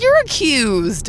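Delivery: imitating dad. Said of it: "And he's like".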